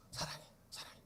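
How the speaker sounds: 사랑해 breathed softly, voiceless; tender whisper. Shown as a demonstration. 사랑해 whispered tenderly to oneself as an example. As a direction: whisper love to yourself. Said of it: "진짜로 나를 사랑해".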